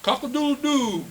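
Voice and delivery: high, loud storybook crowing; rooster crow. A narrator's reading. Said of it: "crowed the, the rooster".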